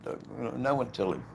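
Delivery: mock warning. Repeats the joking warning.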